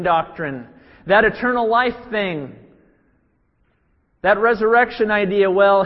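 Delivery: mock him like a smug challenger. Preacher voices the Sadducees taunting Jesus, mocking and loud. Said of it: "They're mocking Jesus".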